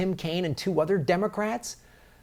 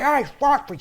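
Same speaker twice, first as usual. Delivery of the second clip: mocking quote; 9 semitones higher, 4 dB louder than usual. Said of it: "on that stage and say".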